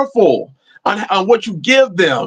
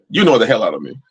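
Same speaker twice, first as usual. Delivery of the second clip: lower, deadpan jab at a friend; mock annoyed retort; 10 semitones lower, much faster than usual. Talking back to the brother in playful annoyance. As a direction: tease him with blunt irritation. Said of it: "It's how I talk to him sometimes".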